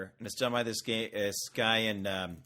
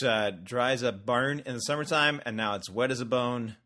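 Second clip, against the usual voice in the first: Australian accent. Shown as a demonstration. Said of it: "that's me saying it in my, uh, muchly lauded Australian accent".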